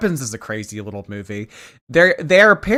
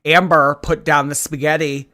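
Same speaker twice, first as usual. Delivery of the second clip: mock scolding call; 3 semitones higher, 5 dB louder than usual.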